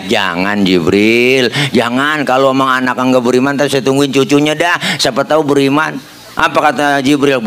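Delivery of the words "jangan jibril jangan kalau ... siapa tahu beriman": gentle refusal. Acted. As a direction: hold him back gently. Prophet restrains again. (Nabi menahan Jibril dengan lembut dan rendah)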